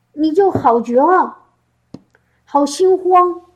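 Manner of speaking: ordinary delivery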